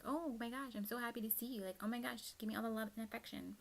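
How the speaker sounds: high, gushing dog voice, lightly done; giddy high-pitched pet voice; voicing the dog. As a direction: speak for the excited dog greeting her. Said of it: "I'm talking about the dog we have".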